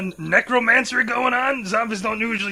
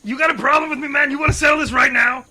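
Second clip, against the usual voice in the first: confrontational; 2 semitones higher than usual. Acted. Threatening a rival.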